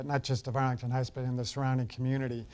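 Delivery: usual speaking voice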